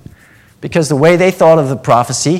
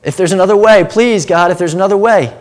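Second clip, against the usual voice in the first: raised, pleading cry, higher and louder; crying out to God; 5 semitones higher, 4 dB louder than usual. Retold or imitated. Jesus in the garden begging God, raised pleading cry. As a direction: beg God for another way. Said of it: "he's crying out to God".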